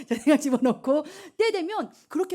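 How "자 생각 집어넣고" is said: laughing, teasing, louder; laughing scold. Real, not acted. Preacher laughing at giggling students, teasing. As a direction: laugh while telling them to stop.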